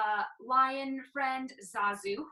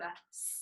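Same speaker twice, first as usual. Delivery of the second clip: snake hiss; 5 semitones lower, 12 dB quieter than usual. Shown as a demonstration. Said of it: "let it out in a snake sound".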